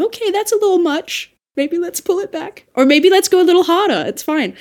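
high, light voice of a coach's notes; a lightly voiced dialect coach giving tips; coach giving feedback. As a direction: play the coach nudging you up or down. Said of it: "somebody can give you the feedback of".

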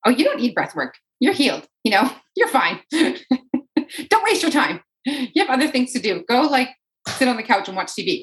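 high, teasing lazy inner voice, laughing; mock tempting voice. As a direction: tempt like a cheeky devil on the shoulder. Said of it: "a voice that's like".

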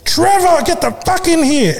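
high-pitched retold yell for Trevor; imitated mum yelling. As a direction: holler like an impatient mum calling indoors. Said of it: "a mum there that used to yell".

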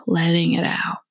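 unhurried phrases with long pauses; measured meditation voice, leaving room to breathe; guided meditation. Acted. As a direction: guide the listener gently into stillness.

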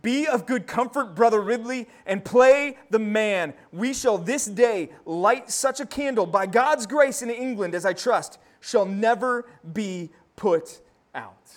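loud, slow and solemn; solemn martyr's encouragement. Retold or imitated. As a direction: comfort a brother at the stake. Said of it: "spoke in this manner".

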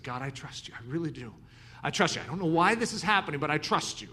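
soft, pleading prayer under the breath; quiet inner prayer. Retold or imitated. A young missionary silently pleads with God, softly. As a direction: murmur it like a prayer said inside.

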